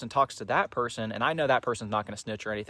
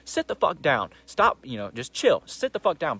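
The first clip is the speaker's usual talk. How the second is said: mock stern shout; 3 semitones higher, 4 dB louder than usual. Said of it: "We're just like".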